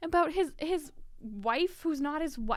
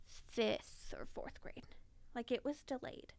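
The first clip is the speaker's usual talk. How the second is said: hushed whisper; 10 dB quieter, slower than usual. Real, not acted. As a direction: whisper it like a confession. Whispered admission.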